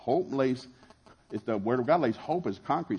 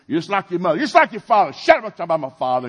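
much higher and louder hammed-up yelling; mock furious yelling; 6 semitones higher, 12 dB louder, faster than usual. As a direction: scream back at your spouse in a row. Retelling couple's shouting match.

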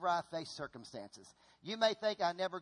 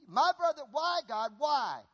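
louder, higher anguished questioning; acted blame; 6 semitones higher, 5 dB louder than usual. Martha blaming the Lord for her brother's death, acted reproachful outcry. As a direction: cry out in mock reproach. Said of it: "she started blaming the Lord".

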